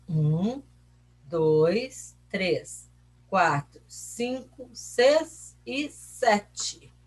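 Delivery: slow count, one number at a time; counting aloud. Shown as a demonstration. Teacher counting paragraphs with pupils, slow spaced count. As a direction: count out deliberately with pauses.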